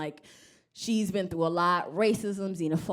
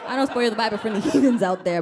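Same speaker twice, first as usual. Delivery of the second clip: normal talking voice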